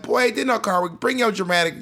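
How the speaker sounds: mock-indignant parent; scolding mom. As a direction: dismiss the kid's drama as an exasperated mother. Voices mom dismissing drama.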